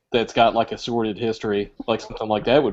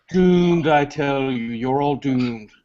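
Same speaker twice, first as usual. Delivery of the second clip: Crazy Ralph impression; slower than usual. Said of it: "a Walt Gorney Friday the Thirteenth reference".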